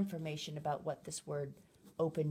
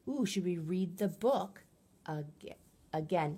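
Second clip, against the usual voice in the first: put-on child-directed invitation. Shown as a demonstration. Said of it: "But I might say something like".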